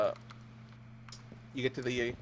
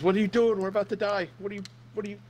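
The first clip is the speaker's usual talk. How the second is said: high, startled asking; a baffled seatmate asking mid-crash, pitched high; puzzled; 9 semitones higher than usual. Acted. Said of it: "he looks at you puzzled".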